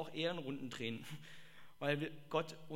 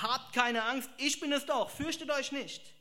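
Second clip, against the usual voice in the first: Jesus reassuring; 7 semitones higher, 6 dB louder than usual. Acted. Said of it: "Jesus sprach sie sofort an".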